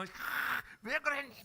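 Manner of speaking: high, sharp mock scold; a parent's shrill-pitched why-did-you; high exasperated cry at the child. Parent scolding over broken thing.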